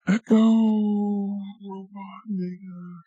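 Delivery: slow, drawn-out robot in an echo. Pretend. Playing with echo effects, slow robot voice. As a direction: stretch it out like an echoing robot. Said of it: "that's like we're in an echo".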